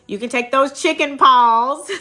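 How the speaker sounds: laughing through the words; giggling while explaining. Real, not acted. Laughing about chicken paws.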